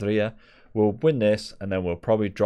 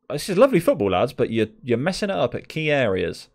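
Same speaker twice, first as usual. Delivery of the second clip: frustrated pep talk; 6 semitones higher, 5 dB louder than usual. Real, not acted. Team talk to players.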